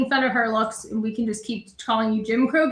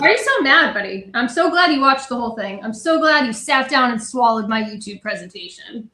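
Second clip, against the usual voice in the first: sarcastic taunt; 5 dB louder than usual. Real, not acted. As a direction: needle him with overloud fake delight. Sarcastic taunt aimed at absent critic.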